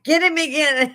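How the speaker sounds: high, loud cheer; a grandmother cheering on the beating; egging her on. Retold or imitated. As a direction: grandmother urging the wife to hit him again, high and loud. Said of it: "the grandmother's going".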